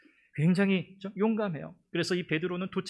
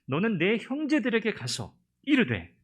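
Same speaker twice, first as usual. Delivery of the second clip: slow, solemn and rising recitation; scripture reading; 3 semitones higher, 3 dB louder than usual. Acted. Preacher reads Jesus' words to Mary, solemn proclamation. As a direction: proclaim the verse with weight.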